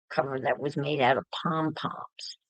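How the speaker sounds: softly whispered aside. Real, not acted. Describing a video book to viewers in a whisper. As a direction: drop to a whisper as if sharing a secret.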